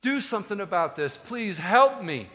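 pleading. Acted. Desperate dad begging the disciples, acted pleading. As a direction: beg for help, stretching the last words. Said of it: "he's pleading with Jesus' disciples".

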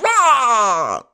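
long, high-pitched comic wail; mock Aussie cry. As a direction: let out a drawn-out caricature Aussie yell. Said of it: "as they say after every five words".

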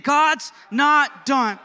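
loud, high, each word drawn out slowly; say it like you mean it. Shown as a demonstration. Preacher rallying a church to mean it, emphatic shout. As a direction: belt it out slowly with full conviction. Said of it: "Say it like you mean it".

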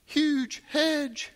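very high, gushing amazement; childlike wonder. Retold or imitated. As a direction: squeal in delight at everything. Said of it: "you start going".

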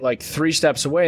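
ordinary talk, nothing marked

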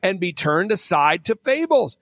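theatrical pulpit-style recitation; scripture reading. Acted. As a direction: declaim the verses, punching and stretching key words. Reads scripture aloud with preaching flourishes.

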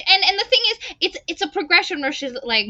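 usual speaking voice

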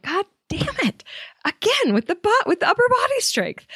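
high, exasperated complaint; frustrated grumble. Retold or imitated. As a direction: strain and whine at the struggle. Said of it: "I'm like".

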